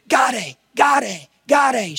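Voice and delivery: high, imitated squeals of discovery; excited child's cries. Father retelling his daughter's first look at her room, excited cries. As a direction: call it out high like a thrilled toddler. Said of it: "She just got all excited".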